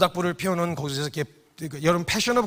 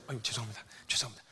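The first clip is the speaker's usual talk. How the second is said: softer, lower mumbled sorry; sheepish apology; 7 semitones lower, 14 dB quieter, faster than usual. Retold or imitated. Peter cringing before Jesus, mumbling a sheepish sorry. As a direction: shrink back and mumble the apology.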